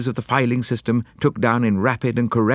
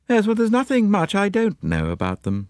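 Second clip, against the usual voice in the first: grimly; 10 semitones higher than usual. A narrator's reading. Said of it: "said Miss Lemon grimly".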